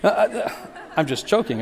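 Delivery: chuckling through the words; preacher joking he is choked up, real laugh. Real, not acted. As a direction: laugh at yourself mid-sentence. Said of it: "I'm getting choked up".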